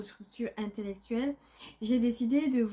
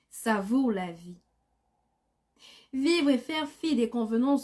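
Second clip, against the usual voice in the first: measured poem reading, phrase by phrase with pauses; poem recitation. Acted. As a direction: recite it line by line, letting each verse land. Recites her own poem. (déclamation posée d'un poème, vers par vers)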